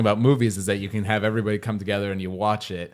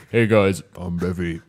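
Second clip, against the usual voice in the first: laughing; 4 semitones lower, 4 dB louder than usual. Real, not acted. Laughing self-intro after being mimicked.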